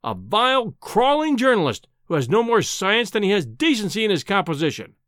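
high-pitched, scornful outburst; indignant tirade. Acted. Enraged professor insulting a journalist, indignant. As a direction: spit out the insult with mild rage.

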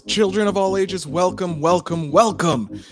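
booming circus ringmaster welcome. Pretend. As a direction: announce it like the big top opening. Circus-style podcast opening.

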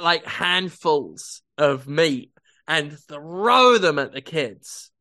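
usual speaking voice

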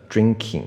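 "drinking" ending in a tense long ee, like keeng; mispronounced drinking. Shown as a demonstration. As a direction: imitate learners saying drinking with a tight ee vowel. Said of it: "有些人会念成drinking".

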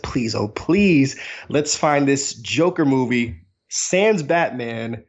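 hopeful pleading. Retold or imitated. Acts out hopeful pleading before film.

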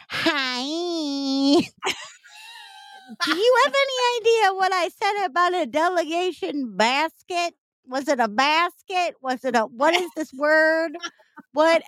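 a panicked laughing question to a friend; frantic voice memo. Retold or imitated. Retold frantic voice message to Krista.

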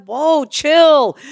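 high, emphatic mock check on oneself; startled call to calm down; telling off. Reacting to own frantic self-talk.

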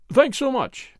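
polite English drawl; English accent. Acted. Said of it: "He had some sort of an English accent".

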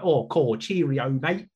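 imitating a put-on Cockney; fake Cockney accent. Retelling a museum ticket man's joke, fake Cockney accent. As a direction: do a light, jokey fake Cockney. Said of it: "a fake Cockney accent was like".

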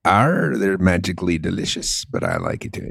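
half-hearted fake Irish accent; bad Irish accent. Shown as a demonstration. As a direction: put on a hammy Irish brogue like a pirate. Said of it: "I was doing my Irish accent".

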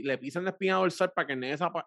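ordinary talk, nothing marked

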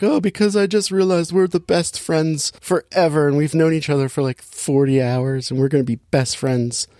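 high-pitched gushy imitation, easing down; mock tearful. Movie heroine crying over her new best friend, mock tearful. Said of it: "and she starts crying".

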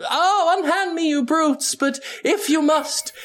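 put-on high, swooning old-movie heroine; Fay Wray damsel voice. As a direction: plead like a fainting film heroine. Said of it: "do some Fey Ray stuff".

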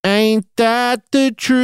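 sassy drawl. Pretend. Mock sassy catchphrase repeated.

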